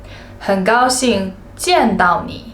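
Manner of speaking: slow, careful model phrases; 慢慢地示范; slow clear demo. Shown as a demonstration. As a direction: say each phrase slowly for learners. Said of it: "you can translate them".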